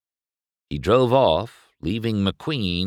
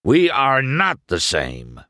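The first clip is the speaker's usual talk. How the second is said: raised, forceful bellow; 5 semitones higher, 4 dB louder than usual. A narrator's reading. Doc bellowing at McQueen, losing his cool. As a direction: lose your cool and bellow it. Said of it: "Doc bellowed".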